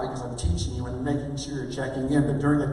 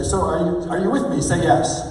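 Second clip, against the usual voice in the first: loud, raised call to the audience; punchy call-and-response demo; rallying tie-down; 3 semitones higher, 6 dB louder than usual. Shown as a demonstration. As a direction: prompt the crowd to answer. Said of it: "I just did it right there".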